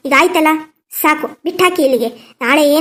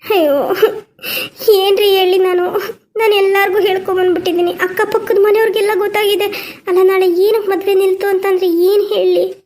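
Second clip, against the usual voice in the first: crying; 3 semitones higher than usual. Acted. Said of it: "ಬಿಡು, ಅಳ್ಬೇಡ".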